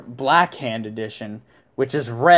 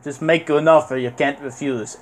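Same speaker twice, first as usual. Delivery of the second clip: light, bad Italian accent; hint of a Godfather Italian accent; Vito Corleone Italian accent. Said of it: "Italian accent is terrible".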